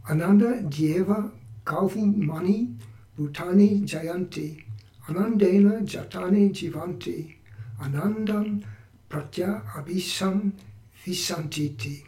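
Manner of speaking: chanting the verse in a modest Sanskrit accent; Sanskrit shloka recitation. Shown as a demonstration. Podcast host reads a Vedic shloka to listeners, in a modest Sanskrit accent. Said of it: "not so great Sanskrit accent".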